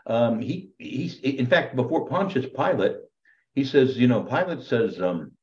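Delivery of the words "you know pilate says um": ordinary talk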